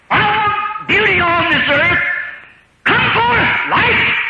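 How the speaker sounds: high, slow, booming divine command; voice of God. Acted. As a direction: command like the Creator himself. God voiced calling forth life.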